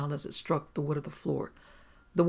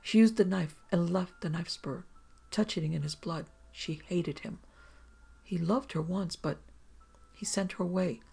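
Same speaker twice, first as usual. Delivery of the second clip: monotone; 2 semitones higher than usual. Acted. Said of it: "She spoke in a monotone".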